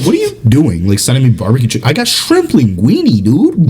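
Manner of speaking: mock outrage, pitch climbing; indignant retold bragging complaint; a little mad. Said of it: "I get a little bit mad".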